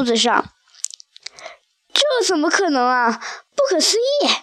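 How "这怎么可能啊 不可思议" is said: a startled little voice losing its words; flustered and stammering. Acted. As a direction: stumble over the words in shock. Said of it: "我有些语无伦次了".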